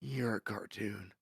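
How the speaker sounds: lightly voiced, slow child in awe; slow imitation of a child's pronouncement; imitated kid. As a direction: drag it out like a stunned kid. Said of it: "And he's like".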